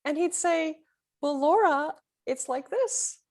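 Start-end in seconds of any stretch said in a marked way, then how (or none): 1.2-3.2 lightly voiced little inner voice, slightly raised pitch. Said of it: "I just hear this little voice".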